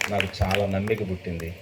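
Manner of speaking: hushed emphatic repetition; soft heartfelt echo. Shown as a demonstration. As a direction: repeat it quietly, letting it sink in.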